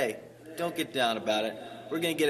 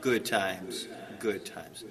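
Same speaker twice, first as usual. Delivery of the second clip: Bob Sled character. Acted. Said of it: "Bob Sled".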